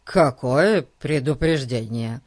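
baffled question; puzzled father, not following at all; utterly puzzled. Acted. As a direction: ask it in mild bewilderment. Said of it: "в полном недоумении спросил".

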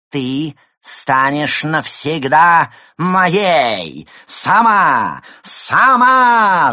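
loud, high, slow demonic roar; villain shouting. Acted. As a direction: bellow it like a stage demon. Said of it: "крикнул".

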